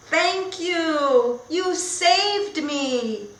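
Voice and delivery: put-on a touch of a thankful child; grateful girl. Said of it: "What is she saying?".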